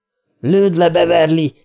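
high-pitched cry to a friend; shouted urging. A narrator's reading. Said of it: "kiáltotta Ricsi újra".

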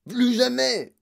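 loud, high outburst; angry yell. Acted. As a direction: bellow a furious refusal. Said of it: "hurla monsieur Tivy".

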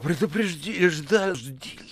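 high, choked stammer; gasping. A narrator's reading. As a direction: choke on the words, short of breath. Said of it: "задыхаясь". (задыхаясь, сбивчиво)

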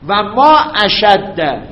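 drawn-out, word by word; slow dictation. Shown as a demonstration. Teacher dictating to students, slow and deliberate. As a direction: spell it out slowly so they can write. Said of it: "پس اینو باید این مصدر بیاریم".

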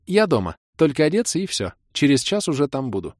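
mock threats, then a sweet invitation; playful girlfriend. Kira's voice continues.

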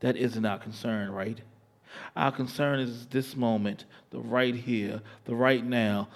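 slow, sensual spoken word; poem recitation. Acted.

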